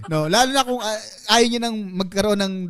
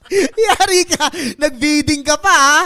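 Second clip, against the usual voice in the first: teasing; 4 semitones higher, 3 dB louder, slower than usual. Pretend. Teasing the winner.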